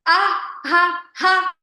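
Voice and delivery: loud, high ha ha pulses; counted laughter. Shown as a demonstration. Teacher leading five counted laughs, loud and high. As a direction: belt five laughs on one breath. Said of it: "Last one, nine times".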